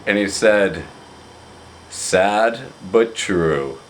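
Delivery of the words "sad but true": slow, drawn-out mock solemn voice; a light imitation of a slow, selective talker, each word weighed; slow deadpan friend imitation; Craig's slow deadpan. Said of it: "he has a very low voice".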